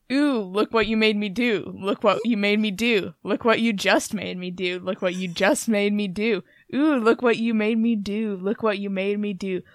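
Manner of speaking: spoken chorus lines, read steadily; a lightly performed lyric reading; reading the chorus aloud. Shown as a demonstration. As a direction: recite the chorus flatly, line by line. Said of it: "would you like to read the lovely chorus".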